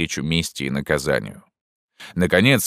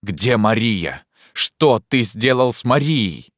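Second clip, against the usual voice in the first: slow, much higher booming demand; thundering voice; 6 semitones higher, slower than usual. Acted. Narrator thunders at Pierrot demanding Maria. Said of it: "сказал громовым голосом".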